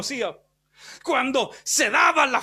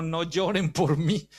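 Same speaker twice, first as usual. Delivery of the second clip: gentle, even, unhurried; calm steady voice; 6 semitones lower than usual. Retold or imitated. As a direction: settle the voice and comfort them. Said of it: "ajustó su voz como siempre".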